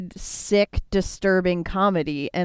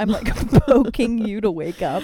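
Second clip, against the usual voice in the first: slightly winded talking; a little short of breath. Real, not acted. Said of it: "We're always out of breath a little bit".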